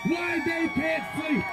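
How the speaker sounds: furious yelling at the city; angry shout. Real, not acted. Protest leader yelling at sleeping neighborhood, angry shout. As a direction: yell it out so the whole block hears.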